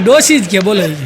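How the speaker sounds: scornful ડોશી; dismissive old-woman jibe. Retold or imitated. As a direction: sneer ડોશી at the mother-in-law.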